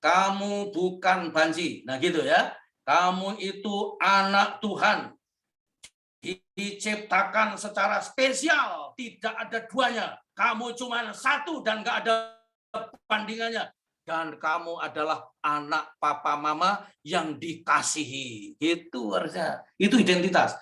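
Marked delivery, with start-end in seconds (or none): 0.0-1.9 reassuring father. Shown as a demonstration. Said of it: "Bapak yang benar harus memberi identitas begini". 2.8-18.5 slow, gentle reassurance to a son; comforting father affirming his son; tender fatherly affirmation. Shown as a demonstration. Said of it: "Bapak yang benar harus memberi identitas begini".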